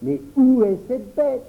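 alarmed question. Acted. A child asks where the frightened boy's beast is. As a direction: ask urgently where it is.

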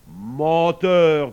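forceful, projected rebuke; accusing sun. Acted. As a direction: hurl it at a liar. Sun accuses the lying pig.

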